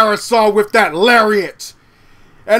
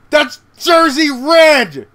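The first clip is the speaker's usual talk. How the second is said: higher, slower, shouted reveal; stunned reveal; 6 semitones higher, slower than usual. Real, not acted. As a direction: announce her arrival in disbelief. Shocked reveal of an interloper.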